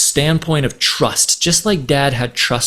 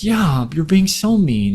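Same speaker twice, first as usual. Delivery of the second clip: put-on higher, slow sulky child voice; sulky daughter; 5 semitones higher than usual. Daughter sulking at dad, higher and slow. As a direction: pout like a cross little girl. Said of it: "And she's like".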